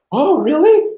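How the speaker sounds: big high-pitched swoop of amazement; mock impressed. Date imagined gushing over his movie, exaggeratedly impressed. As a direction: gush it, drawn out and rising. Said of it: "she's not like".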